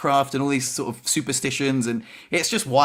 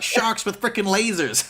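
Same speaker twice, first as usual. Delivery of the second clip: high, slow put-on movie villain voice; movie villain quote; 7 semitones higher, slower than usual. Podcast host jokes about laser surgery, mock villain voice. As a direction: ham up the Austin Powers line, slow and high. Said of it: "He's like".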